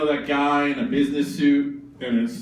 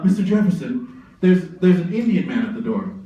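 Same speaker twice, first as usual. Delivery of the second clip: urgent, louder servant calling to Jefferson; servant announcing; 2 semitones higher, 4 dB louder than usual. Acted. Servant announcing a visitor at the door, urgent call. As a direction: servant hurrying in to warn Jefferson.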